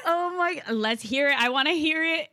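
high, laughing plea to hear it. Real, not acted. Host begs to hear remix poem, laughing. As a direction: laugh while begging for the poem.

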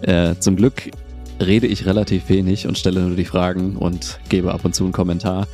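bad mic sounding like a robot; robotic, badly compressed mic sound. Real, not acted. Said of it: "es hört sich an wie ein Roboter". (Roboterstimme durch falsches Mikrofon)

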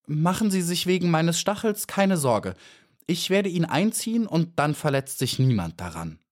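high, as friendly as she can manage; forced friendliness. A narrator's reading. Frightened bee reassuring the spider about her sting, mildly friendly. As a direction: sound kind despite the fear. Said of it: "so freundlich, wie sie vermochte".

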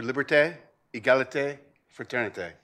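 liberté, égalité, fraternité said in a modest French accent; French words, lightly accented. Real, not acted. President quoting the French motto to the ambassador, in a modest French accent. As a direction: try "liberté, égalité, fraternité" the French way, not quite managing it. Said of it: "my already weak French accent always fails me".

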